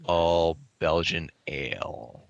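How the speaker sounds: slow, stretched "all Belgian ale"; drawn-out realization. Retold or imitated. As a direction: draw out each word as it dawns on you. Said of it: "then it was like".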